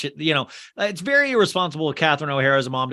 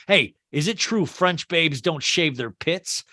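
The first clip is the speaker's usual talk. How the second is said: put-on older man voice; slower than usual. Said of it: "I'm doing an older man voice for Buzz".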